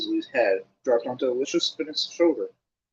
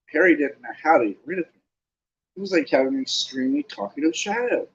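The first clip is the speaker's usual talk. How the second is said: usual speaking voice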